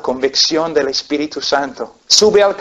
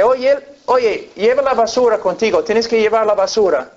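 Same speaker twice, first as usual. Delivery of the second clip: higher, put-on nagging wife voice; 5 semitones higher than usual. Preacher voicing a groggy wife nagging her husband, higher mock voice. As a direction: nag him about the trash, a little mocking.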